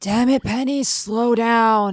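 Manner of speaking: high, airy, scratchy, breathy character voice. A player voicing a character calling out to a companion far ahead; breathy character voice. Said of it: "That voice is so breathy".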